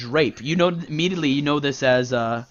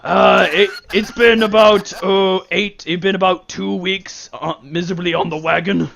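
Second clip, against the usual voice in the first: a lightly voiced, louder man grumbling about sobriety; sober ex-drunk; 3 semitones higher, 4 dB louder than usual. Sober man telling Kriv about his bargain with the isles. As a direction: complain cheerfully about staying sober.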